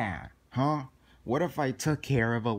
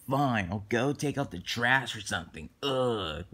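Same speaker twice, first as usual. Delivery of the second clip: sulky grumble. Acted. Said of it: "Why are you talking like that?".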